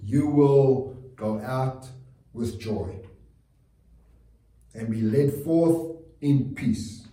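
slow, drawn-out solemn read; slow proclamation. Acted. Pastor blessing his congregation with the promise, slow and solemn. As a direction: let each phrase land slowly, like a blessing.

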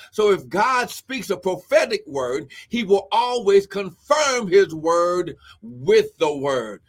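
emphatic preacher's delivery; preaching. Real, not acted. Preacher assuring listeners God confirms his word, emphatic preaching. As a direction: drive each phrase home like a preacher.

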